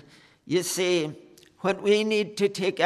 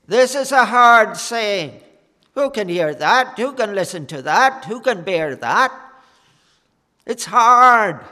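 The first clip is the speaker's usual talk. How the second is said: loud complaining crowd; 2 semitones higher, 7 dB louder than usual. Retold or imitated. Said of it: "And they said".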